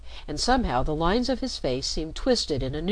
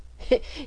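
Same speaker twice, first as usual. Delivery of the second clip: short breathy broken laugh; a nervous half laugh, cut off; boy laughs awkwardly facing the tall father, jerky half laugh; 9 semitones higher than usual. A narrator's reading. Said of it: "added with a jerky half laugh".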